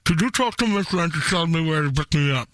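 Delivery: talking through a mouthful; mumbled round stuff in mouth; mouth full. Real, not acted. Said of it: "because I have stuff in my mouth".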